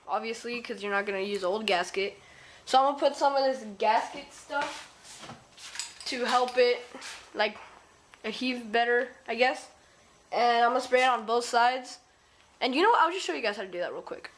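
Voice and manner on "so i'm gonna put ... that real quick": talking through a face mask; muffled, mask over mouth. Real, not acted. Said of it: "sorry if my voice feels muffled. It's 'cause I'm wearing a mask".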